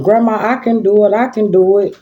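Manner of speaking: lightly voiced pleading granddaughter; granddaughter's pleading. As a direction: mimic an eager child insisting.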